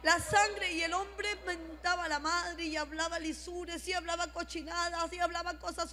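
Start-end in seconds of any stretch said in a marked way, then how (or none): 0.0-0.7 higher, drawn-out rebuke while advancing; reprensión al diablo. Retold or imitated. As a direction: press the devil back with each word. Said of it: "comencé a avanzar y le decía". (reprendiendo con insistencia, en tono más alto)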